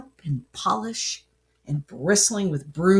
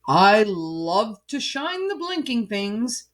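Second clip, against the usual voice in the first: mild boom. Acted. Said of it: "he boomed".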